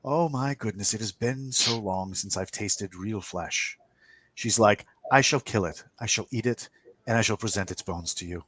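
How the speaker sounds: lightly voiced mischievous creature; playful woman's voice. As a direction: lightly play her relish, with a teasing lilt. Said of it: "it's a woman's voice, and it's playful".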